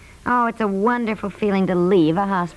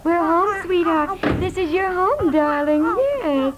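put-on soothing the baby; 5 semitones higher, slower than usual. Mother soothing crying baby.

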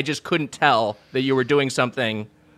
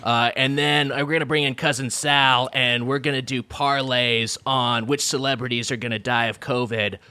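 light podcast-host parody, rattling off the rundown; Bill Simmons; 3 semitones lower than usual. Acted. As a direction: lightly mimic a sports podcaster's intro. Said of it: "start over again just with your Simmons bullshit".

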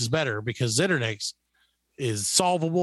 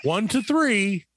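slow, drawn-out mock German ad read; confidently mangled German with a heavy American tongue; 3 semitones higher than usual. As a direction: read out pretend German product copy with confidence. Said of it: "because I speak flawless German".

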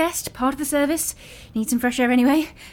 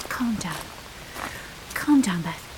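self-calming. Acted. Alone, calming herself.

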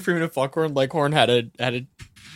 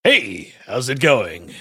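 lower, lightly put-on greeting; character voice demo; 3 semitones lower, much slower than usual. Shown as a demonstration. Asked by co-host to show the voice, lightly in character. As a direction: try out a new character voice. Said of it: "do your voice. I wanna hear it".

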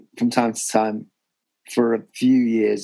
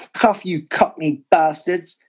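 imitating a Cockney fan's drawn-out heckle, higher; slow, higher Cockney jeer in imitation; mock Cockney shout; 5 semitones higher than usual. Newcastle fan with a London accent heckling at White Hart Lane, mock Cockney shouting. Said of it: "shouting out".

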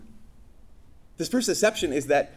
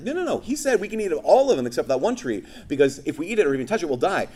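Eve's eager answer; 3 semitones higher than usual. Acted. Eve answers Satan.

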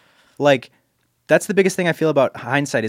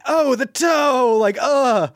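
high, slow squeaky disgust; tiny homunculus voice; 12 semitones higher, much slower than usual. Retold or imitated. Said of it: "he's just like".

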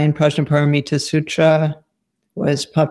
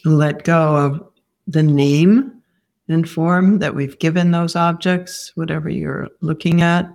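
guided meditation. Real, not acted. Teacher guiding students to let go of form, guided meditation. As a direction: lead them gently inward, leaving long silences.

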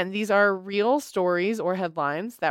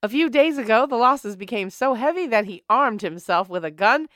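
put-on old-timey voice. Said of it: "use the old-timey voice".

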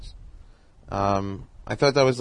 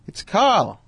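Carl Reiner voice; 10 semitones higher, 4 dB louder than usual. Retold or imitated. Old man voiced in phone story.

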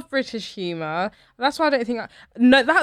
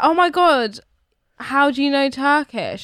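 imitating a surprised stranger, pitched up; a touch of wonder, slow on the question; mock amazement; 4 semitones higher, slower than usual. Shop woman asking about her Turkish, mildly amazed.

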